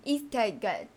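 Instagram said as "isteke", laughing; Japanese accent, laughing. Retold or imitated. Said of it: "日本腔念Instagram". (日本腔的Instagram)

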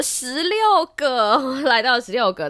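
laughing. Real, not acted. Laughing over the small number.

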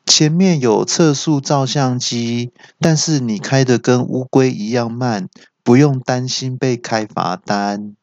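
slow machine-like alert; mock car GPS voice; GPS announcement. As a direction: read it like a navigation warning. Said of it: "又说".

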